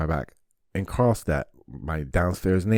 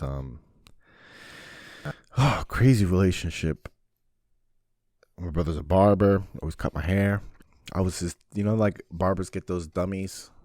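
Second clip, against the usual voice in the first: ordinary talk, nothing marked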